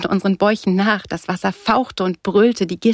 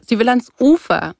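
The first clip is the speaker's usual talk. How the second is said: high, louder mocking announcement; called out; 5 semitones higher, 5 dB louder than usual. A narrator's reading. Surfer mocking the girl's request to his men, called out. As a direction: announce it loudly to the gang. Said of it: "rief er".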